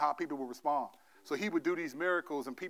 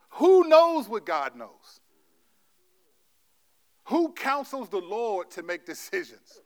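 much louder, slow, each word hammered home; loud slow preaching; 4 semitones higher, 8 dB louder, slower than usual. Real, not acted. Pastor preaching to the congregation, loud and slow. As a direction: thunder the question out to the room.

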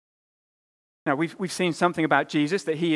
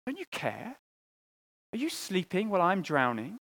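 pleading; 3 semitones higher than usual. Retold or imitated. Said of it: "you cry out to God".

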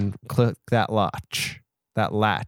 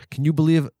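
ordinary talk

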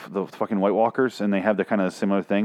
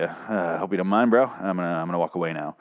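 Beta voice; 4 semitones lower than usual. Retold or imitated. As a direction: say it like a shrug after killing. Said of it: "he's like".

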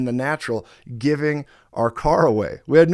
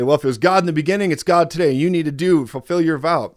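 louder, higher, fast and pushy; insistent quote; 3 semitones higher, 5 dB louder than usual. Retold or imitated. The receiver insisting the pastor fulfill his vow. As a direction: press him to keep the vow. Quoting the insistent person he gave to.

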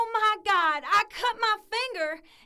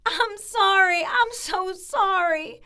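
tearful apology; 5 dB louder, slower than usual. Acted. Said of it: "Are you crying?".

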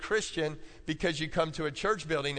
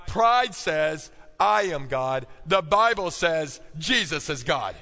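preaching climax; 5 dB louder, slower than usual. Acted. Climactic list of false gods.

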